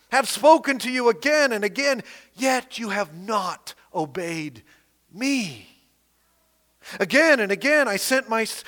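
bold preacher reading God's words; preaching scripture aloud. Acted. Preacher reads the Lord's warning to Judah, proclaiming. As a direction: proclaim the passage to the congregation.

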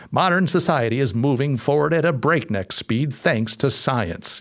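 lightly voiced old-timey newsreel announcer; hint of a brisk 1940s newsreel voice; old newsreel narrator. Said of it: "really kind of newsy, old-timey voice".

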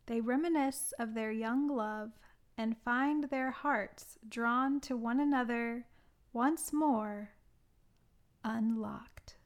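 measured, deliberate film-blurb read; summary read-out. Acted. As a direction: read out a prepared plot summary, phrase by phrase. Reads out own plot summary.

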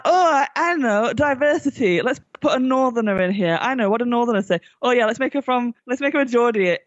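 a hint of a smug writer pitching; mock clueless writer. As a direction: send up the writers' bright idea.

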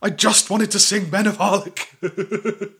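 giggling through the words; laughing. Real, not acted. Jokes about singing Welsh anthem.

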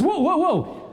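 high, amused whoa from above; God pausing the scene, hammed-up; God stopping time. God hitting slow motion on the throw, high amused whoa. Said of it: "God goes".

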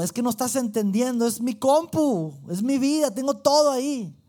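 frustrated high-pitched protest; insistent pleading. Retold or imitated. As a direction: refuse to hear, press harder. Insisting to Jesus, not listening.

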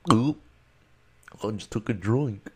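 a lightly voiced cartoonish gulp; goofy voice. Mocking himself for gulping into the mic, lightly goofy voice. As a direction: goof around like a silly cartoon. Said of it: "I would do a goofy voice".

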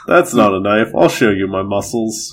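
mock Aussie accent; Australian accent. Topping a friend's knife line, mock Australian accent. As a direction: echo the line as a hammy Australian. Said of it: "I'm Australian".

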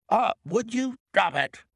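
high, sudden sharp warning; urgent command. A narrator's reading. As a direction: cry out to stop him. Inspector stops man cocking revolver.

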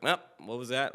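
imitating a bandmate's abrupt objection; Ben. Singer mimics his bandmate stopping a sour take, impression. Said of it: "really good Ben impression".

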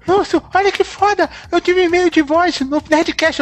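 high, girly imitation of Dudu; squeaky little-girl mocking voice. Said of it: "essa voz de menininha, como você imitou agora".

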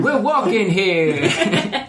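high, slow, laughing zombie voice; indignant zombie. Acted. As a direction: drag it out like a shuffling corpse. Voicing the dead.

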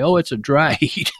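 sarcastic quote, laughing mid-word; mock the cliché while laughing; laughing mockery. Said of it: "And I always say".

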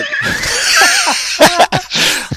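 loud laugh. Real, not acted. Host bursts out laughing.

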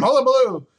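a quick hammed-up character voice; silly voice. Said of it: "That's me doing a voice".

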